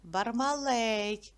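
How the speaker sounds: "Бармалей" slowly, stress on the last syllable "лей"; наголос на "лей", повільно. Shown as a demonstration. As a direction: lean on "лей" in "Бармалей" and slow down. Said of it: "На е".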